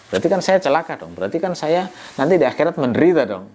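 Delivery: a hint of scoffing disbeliever; mocking tone. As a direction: poke fun at the afterlife, lightly. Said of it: "Tapi nadanya ngejek".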